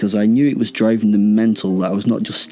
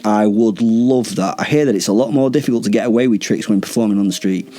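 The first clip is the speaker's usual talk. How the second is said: teasing enthusiasm; 3 semitones higher than usual. Acted. Mock fan goading the vampires.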